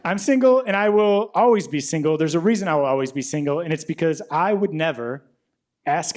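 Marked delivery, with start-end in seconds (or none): 0.0-1.7 loud declaration. Acted.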